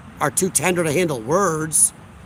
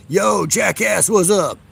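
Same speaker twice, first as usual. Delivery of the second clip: guy greeting; 2 semitones higher, slower than usual. Retold or imitated. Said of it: "how guys say hi to each other".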